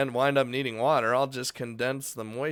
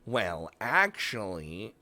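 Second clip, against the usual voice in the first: know-it-all nerd voice; 4 semitones lower, slower than usual. Pretend. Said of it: "do the know-it-all nerd voice".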